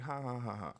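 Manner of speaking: flat spoken ha ha, a mock laugh; mock fake laugh. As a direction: spell out a fake laugh mockingly. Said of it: "like, laughing or something".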